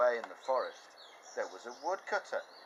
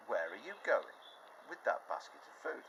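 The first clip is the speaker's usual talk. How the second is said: a hint of a sly wolf; wolf's question; 4 dB quieter than usual. Wolf questioning the girl, hint of slyness. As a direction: slyly ask. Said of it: "And the big, bad wolf said".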